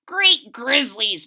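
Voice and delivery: slow, mild mock moan. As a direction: moan it in defeat.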